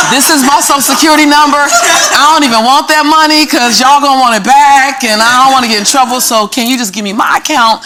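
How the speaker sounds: flustered laughing protest; laughing disbelief. Retold or imitated. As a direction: insist through laughter that it can't be yours. Insisting the money isn't hers.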